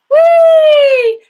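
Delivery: very high, loud sustained "Wee!". Shown as a demonstration. Coach showing students a high "Wee!" warm-up. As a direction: soar up on a long bright "Wee!".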